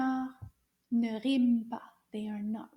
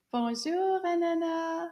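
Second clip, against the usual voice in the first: louder greeting; 6 semitones higher, 5 dB louder than usual. Shown as a demonstration. Teacher greets the class puppet, a little bit louder. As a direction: call the greeting out loud and bright. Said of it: "A little bit louder".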